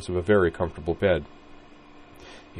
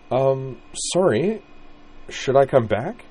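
higher, awkward halting sorry; flustered apology; 7 semitones higher, slower than usual. Acted. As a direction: caught walking in on them. Utena embarrassed at the door.

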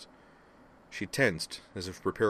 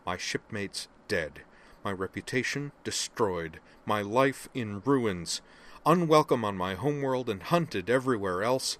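building savage anger; 3 semitones higher, 4 dB louder than usual. Acted. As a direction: let the fury gather word by word. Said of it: "a rapidly gathering tone of savage anger".

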